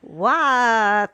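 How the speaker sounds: Scottish attempt slipping into Italian; accidental Italian accent. Shown as a demonstration. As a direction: stretch it into a botched Italian-sounding accent. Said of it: "That's Italian".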